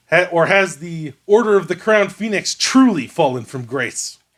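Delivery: high, proud female knight voice.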